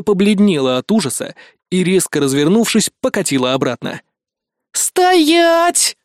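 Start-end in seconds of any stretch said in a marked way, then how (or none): 4.7-6.0 sharp, much higher bark of a furious woman; barked command. A narrator's reading. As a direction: snap the order like a chasing fury. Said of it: "рявкнула Фурия".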